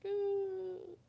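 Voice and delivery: high choked little "ooh"; a teary whimper breaking out; tearful whimper. Retold or imitated. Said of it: "I just started crying".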